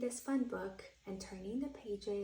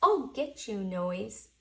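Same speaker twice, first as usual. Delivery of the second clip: a touch of mock anger, louder; Owl threatening; 8 dB louder than usual. Owl vows to catch the noise, a mild threat.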